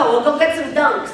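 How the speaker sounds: hammed-up Boston accent; playful Bostonian. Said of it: "repeat after me".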